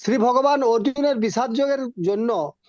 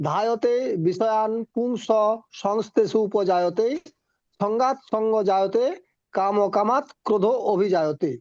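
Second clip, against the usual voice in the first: Sanskrit verse recitation. Acted.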